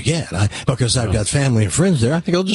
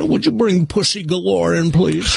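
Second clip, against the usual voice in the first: put-on Scottish Bond voice; Sean Connery; 4 semitones higher than usual. Host shows his idea of Bond, Scottish impression. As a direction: imitate a Scottish film spy. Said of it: "Sean Connery to me is".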